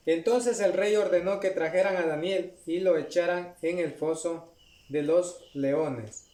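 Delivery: measured, solemn Bible reading; scripture reading. Acted. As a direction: read the verse to the congregation with gravity. Reads scripture aloud.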